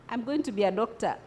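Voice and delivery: soft, quick, unconvincing "I'm going to be a doctor.". Shown as a demonstration. Teacher showing students a weak, doubtful claim, soft and fast. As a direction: mumble it without belief. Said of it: "That doesn't sound convincing".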